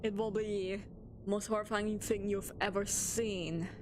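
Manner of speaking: lightly done creepy storyteller; mock spooky narration. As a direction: tease the chat with dread. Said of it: "now we're gonna go serious mode".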